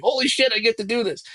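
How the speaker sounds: high, fast thrilled gush; excited. Retold or imitated. Wrestler gushing about getting to wrestle, high and fast. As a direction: burst out like a kid let loose. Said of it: "I'm like".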